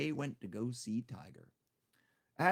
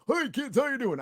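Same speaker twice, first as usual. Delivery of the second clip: high, loud fake-cheery greeting; mock the overly bright kids' presenter; chirpy kids host; 13 semitones higher, 7 dB louder than usual. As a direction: parody of a cheesy children's host, high and bright. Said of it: "I'm thankfully not one of those".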